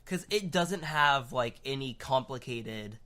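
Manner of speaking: talking through hiccups; hiccuping between words. Real, not acted. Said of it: "why do I have the hiccups".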